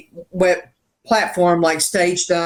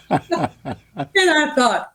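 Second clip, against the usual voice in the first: talking through a laugh; 7 semitones higher, much slower than usual. Real, not acted. Telling the host about her seven songs, laughing. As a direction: start speaking while still laughing.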